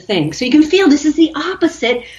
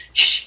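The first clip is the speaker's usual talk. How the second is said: breath of fire shush. Shown as a demonstration. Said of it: "Try it, Lise".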